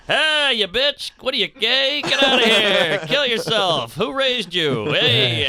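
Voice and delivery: high, loud hammed-up insults; mock his lame trash talk, way up high; parody trash talk. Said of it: "It sounds like a bit".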